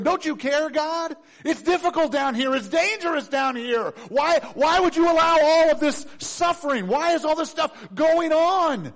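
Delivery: high, loud, desperate pleading to God; panicked prayer. Acted. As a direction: cry out to heaven in panic.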